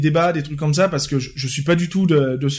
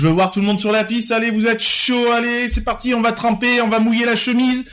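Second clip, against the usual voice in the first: party DJ hype; 4 semitones higher than usual. Retold or imitated. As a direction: get the dance floor going. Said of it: "du style".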